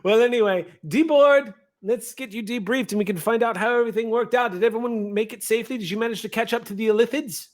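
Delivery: high, brisk gnome chatter; high-pitched, hurried little gnome. Acted. Gnome calls up to the crew.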